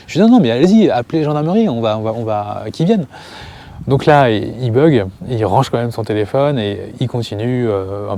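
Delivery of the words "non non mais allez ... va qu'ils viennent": teasing dare. Retold or imitated. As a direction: egg him on cheekily, bright and loud. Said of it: "moi, je suis un petit peu taquin".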